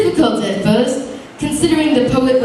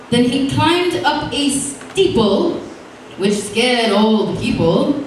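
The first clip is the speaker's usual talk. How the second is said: slow, lilting limerick recital; sing-song verse read aloud; lightly performed poem; reciting a limerick. A narrator's reading.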